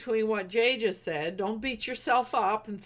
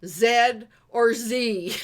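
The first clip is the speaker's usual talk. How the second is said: "Zed or Z?" slow and louder, weighing each word; slowly pit "Zed" against "Z"; 5 dB louder, much slower than usual. Retold or imitated. Somebody last night asking which letter name, slow and loud. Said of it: "I heard somebody go".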